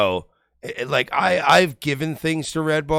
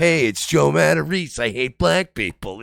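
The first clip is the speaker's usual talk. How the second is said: Joe impression; 4 dB louder than usual. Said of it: "he's just calling on".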